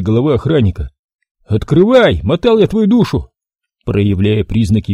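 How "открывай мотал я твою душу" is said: angry hiss. A narrator's reading. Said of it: "злобно прошипел Макс".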